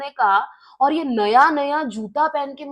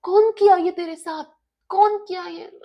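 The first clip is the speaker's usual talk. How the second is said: concerned friend; 6 semitones higher than usual. Retold or imitated. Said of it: "ये मुझे देख के बोल रहा है".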